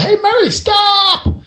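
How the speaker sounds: high, loud mock yell of alarm; retold yell. Doctor yelling at Mary running to the pool, high mock yell. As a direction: call out sharply to stop her. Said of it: "He yelled".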